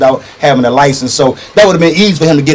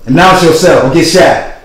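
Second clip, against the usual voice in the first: police warning; 7 dB louder, slower than usual. Acted. Cop warning before entering.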